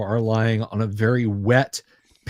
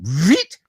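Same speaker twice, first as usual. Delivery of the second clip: quick, higher zipping noise; imitated rope zip; 4 semitones higher, 5 dB louder than usual. Imitates rope running out fast.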